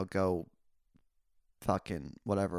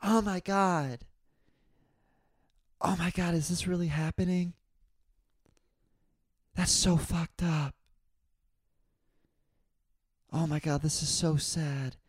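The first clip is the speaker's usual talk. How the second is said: mocking the chatty old woman; 7 semitones higher than usual. Mocking the woman who kept commenting through the film, high and whiny. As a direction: whine each gasp like a nosy moviegoer. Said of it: "add ad libs to the movie".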